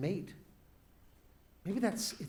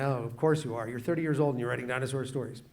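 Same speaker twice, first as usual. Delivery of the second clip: mock teasing; 4 semitones lower, faster than usual. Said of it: "his wife laughed at him".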